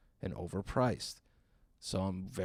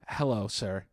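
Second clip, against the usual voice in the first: polite "Hello, sir."; slower than usual. Retold or imitated. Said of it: "she fucking cuts me off with this".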